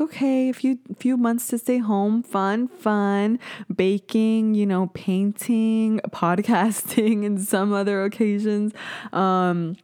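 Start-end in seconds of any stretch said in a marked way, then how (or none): 0.0-8.7 sing-song upbeat mock; carefree upbeat. Everyone's carefree early-pandemic attitude.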